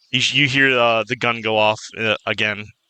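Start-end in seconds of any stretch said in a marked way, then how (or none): none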